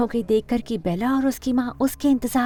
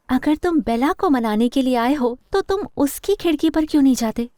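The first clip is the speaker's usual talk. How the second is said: higher-pitched, annoyed challenge; irritated; 4 semitones higher than usual. Acted. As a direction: question him with pointed irritation. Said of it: "उसकी शक्ल पर हैरानी से ज्यादा चिढ़". (चिढ़कर पूछते हुए)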